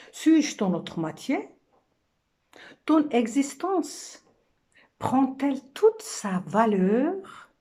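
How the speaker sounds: questions déclamées, voix plus haute; rôle de femme. Acted. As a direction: interroger avec intensité, finales montantes. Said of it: "c'est la femme qui parle". (femme qui questionne, poème joué)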